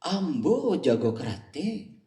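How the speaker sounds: put-on slow Minang-accented boast, stressing Ambo; proud Padang man drawling "Ambo jago karate". Preacher voicing a Padang man answering a Sundanese, Minang accent. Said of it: "orang Padang".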